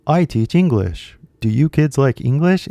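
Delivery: lightly mimicked teacher talking to kids; a hint of put-on English-teacher voice. Man addressing kids in English, mildly mocked teacher voice. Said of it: "teacher voice".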